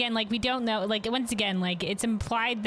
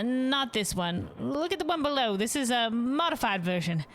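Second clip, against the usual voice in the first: lightly voiced cheerful hostess, a bit higher; innkeeper voice; 4 semitones higher than usual. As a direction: greet the guest like a caring innkeeper. Innkeeper describing dishes.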